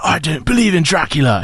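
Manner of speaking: mock bad British accent; lightly faked British accent; Keanu Reeves. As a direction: send up a failed British accent. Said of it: "Keanu Reeves doing a British accent".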